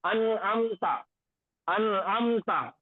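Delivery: अनअमता slow and drawn out, nun read plain with no nasal hum; Quranic recitation demo. Shown as a demonstration. Teacher showing students how to recite, slow and careful. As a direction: recite अनअमता slowly, syllable by syllable. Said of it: "तो दोनों का पढ़ने का तरीका ये हो जाएगा".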